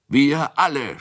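high, loud tipsy shout. A narrator's reading. Tipsy Kunicke shouts that everyone will come. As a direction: yell out eagerly. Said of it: "schrie Kunicke".

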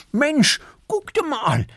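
high, slow amazed squirrel call; Erik exclaiming. Acted. Erik calls the animals to look, amazed. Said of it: "ruft Erik".

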